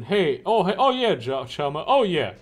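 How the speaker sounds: lightly voiced grinning hustler pitching wares; a hint of a slick dealer; shady street dealer. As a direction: sell it like a slick pusher with a lopsided grin.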